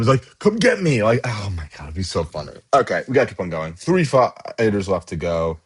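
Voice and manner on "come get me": high, taunting call to the zombies; a playful mock taunt; mock yell. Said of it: "yelling at them".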